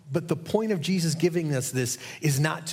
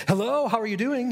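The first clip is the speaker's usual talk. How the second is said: much higher, chirpy sudden switch; higher, perky mock phone hello; bright phone voice; 10 semitones higher, 3 dB louder than usual. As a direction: snap awake into a cheery phone greeting. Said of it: "the phone rang. She picked up".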